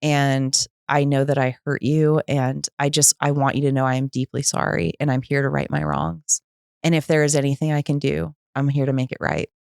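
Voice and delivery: subdued, earnest amends; sincere apology. Retold or imitated. Woman making amends to her ex-husband, heartfelt and restrained.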